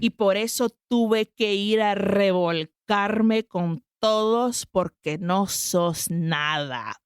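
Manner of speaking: dramatic quote. Retold or imitated. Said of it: "this line took me out".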